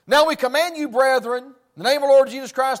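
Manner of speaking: loud, commanding scripture reading; preacher reading epistle. Acted. Preacher reading the epistle aloud to church, loud and commanding. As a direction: proclaim it to the whole congregation. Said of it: "and you hear these words".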